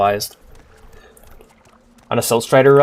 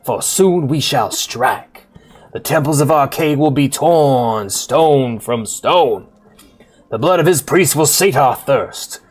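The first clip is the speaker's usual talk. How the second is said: slow, stretched-out Southern pulpit delivery; hammed-up Southern preacher sermon; slower than usual. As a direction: preach it like a Southern revival minister. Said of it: "we're gonna do a fucking Southern preacher voice".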